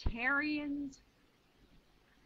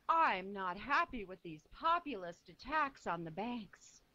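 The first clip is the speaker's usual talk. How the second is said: mocking, upper-crust patrician accent; fake patrician accent; 3 semitones lower than usual. Mocking Hillary's statement on banks in a fake patrician accent. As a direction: sneer it out like a Hamptons socialite. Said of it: "in her fake patrician accent".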